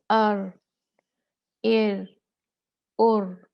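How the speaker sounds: loud अर, एर, उर with a forced r; no proper trill. Shown as a demonstration. Teacher showing a trill done wrong. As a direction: push the r hard and badly. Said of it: "कोई तकरार नहीं है".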